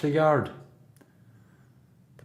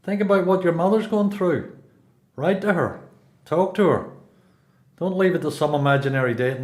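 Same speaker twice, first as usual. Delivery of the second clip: urging; 5 semitones higher than usual. Acted. Older prisoner urges youth to write home.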